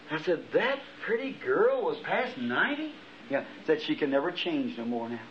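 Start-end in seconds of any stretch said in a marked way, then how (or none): 0.5-2.9 higher, slow incredulous question; mild astonishment, drawn out; retold disbelief. Asking the voice about the woman's age, incredulous. Disbelief at surprising news in dream.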